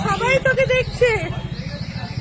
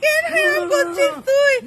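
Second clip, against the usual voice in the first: 1 crying shout; 3 semitones higher than usual. Real, not acted. Begging friend through tears.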